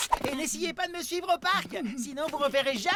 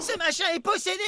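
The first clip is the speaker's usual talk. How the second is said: panicked yell; scared shout; frightened shout; 2 semitones higher than usual. Acted. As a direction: cry out that the thing is possessed. Carl frightened by moving bear.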